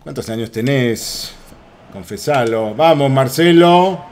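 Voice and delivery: slow, drawn-out Argentinian imitation; mock Argentinian accent. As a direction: stretch it out in playful Argentinian. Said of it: "No estoy imitando a mala leche".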